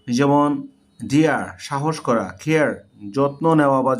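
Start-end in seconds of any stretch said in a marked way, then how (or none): 1.0-1.4 ডিয়ার with a two-part vowel gliding into "ah". Shown as a demonstration. Teacher giving an example of A, ডিয়ার with a gliding vowel. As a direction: glide through the vowel in ডিয়ার to "ah". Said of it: "অনেক সময় এ আ হয়".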